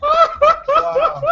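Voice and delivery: in ice cold water. Real, not acted. Reacting after ice bucket.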